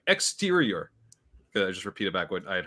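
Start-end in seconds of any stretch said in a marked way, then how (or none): 0.1-0.9 higher, unsure stab at the French word Exterior; mock French. Tourist repeating the waiter's French, pitched up and unsure. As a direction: parrot the word back like a lost tourist. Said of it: "I was like".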